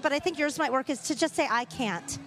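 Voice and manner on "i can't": "can't" said in a British accent. Shown as a demonstration. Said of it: "mostly with a British accent".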